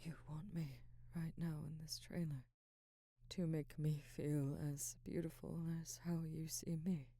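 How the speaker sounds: soft whispered confession; hushed, yielding whisper; intimate whisper. Acted. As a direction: whisper it close, giving in.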